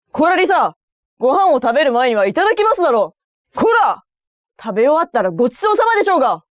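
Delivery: high, fast scolding dad; strict father scolding. Acted.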